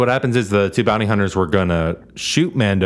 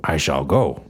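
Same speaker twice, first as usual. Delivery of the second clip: lowered mock solemn voice; 6 semitones lower than usual. Mock formal line, much lower.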